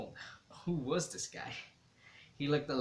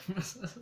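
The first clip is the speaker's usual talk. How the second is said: burst of laughter; 7 semitones higher than usual. A narrator's reading. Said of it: "That made me laugh harder".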